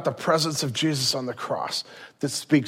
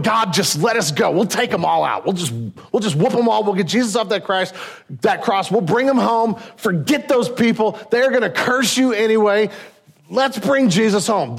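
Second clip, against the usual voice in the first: eager angels; 5 semitones higher than usual. Retold or imitated. Angels begging to rescue Jesus.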